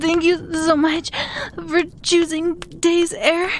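polite cabin-crew announcement; chirpy flight attendant script; airline announcement voice. Acted.

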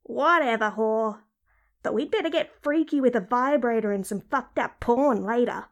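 sulky, crude inner voice; randy character voice, dismissive; brazen talking-vagina character. Acted. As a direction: give in grudgingly, still lewd. Crude talking body part.

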